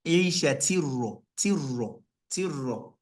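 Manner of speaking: عِيشَةٍ را with the ta kasra cut short into ra; clipped kasra demo. Shown as a demonstration. Teacher showing the wrong, clipped kasra before ra. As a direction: move straight from عِيشَةٍ into را. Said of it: "Instead of me to say عِيشَةٍ را".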